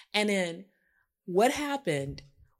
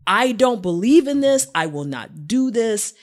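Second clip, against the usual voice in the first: slow, emphatic list of rules; imitating a partner's deliberate declaration; mock rule-giving; 2 semitones higher, 5 dB louder, slower than usual. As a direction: lay out a code, point by point. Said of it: "And it was like".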